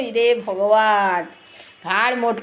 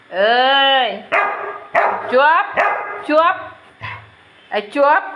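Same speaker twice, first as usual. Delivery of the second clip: sharp hush; much slower than usual. Real, not acted. Telling the pet to hush. (ধমক দিয়ে চুপ করানো)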